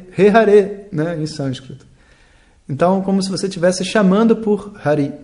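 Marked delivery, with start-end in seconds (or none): 0.1-0.9 "Re Hare" called louder and higher; Sanskrit vocative. Shown as a demonstration. Teacher gives the Sanskrit call, loud summons. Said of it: "você fala".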